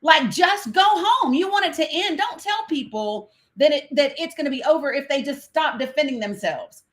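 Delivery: retelling her angry reply, voice up high; heated retort. Retold or imitated. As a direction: fire it back at him, exasperated. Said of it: "I said".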